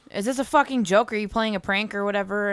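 loud, incredulous; loud disbelief. Retold or imitated. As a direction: demand answers, loudly. Retold confused caller.

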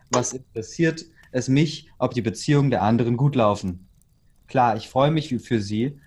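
read-aloud chapter narration; story narration. A narrator's reading. Host reading a chapter to the others, narrating. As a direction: read it out steadily, phrase by phrase.

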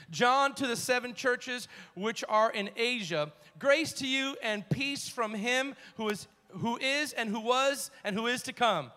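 measured, emphatic Bible reading; scripture reading. Acted. Preacher reads Revelation to the congregation, emphatic scripture reading. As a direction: read the verse out with preacher's emphasis.

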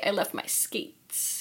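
soft breathy whisper. Pretend. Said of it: "a cool way to say".

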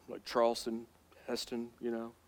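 deep, soft epic-movie narrator voice; Charlton Heston voice. Retold or imitated. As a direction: boom it out like a Hollywood Moses. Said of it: "like Charleston Heston".

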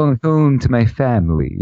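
home like hum, family clipped; going hum to my fam-ly, played up; Philly home and family. Shown as a demonstration. Host playing up Philly speech for cohost. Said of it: "Philly way demo".

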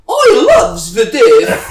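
high, slow, exaggerated broad Cardiff accent; mock broad Cardiff accent. Mocking the blogger's fake Cardiff accent, high and slow. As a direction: drag out "I loves the Diff" in a hammed-up Cardiff accent. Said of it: "his accent's like".

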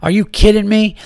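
fired-up rant about the complaint; pissed-off rant. Retold or imitated. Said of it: "and I'm pissing".

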